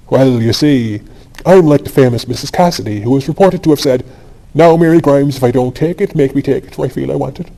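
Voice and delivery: a lightly put-on broad Dublin accent; mock vulgar Dublin accent. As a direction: sidle in with a cheeky Dublin brogue. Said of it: "he had assumed a very low Dublin accent".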